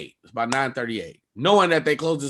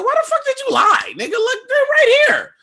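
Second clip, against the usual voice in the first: furious shout; 6 dB louder than usual. Retold or imitated. Comic confronting the supervisor who lied, very high furious shout. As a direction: blast him for lying.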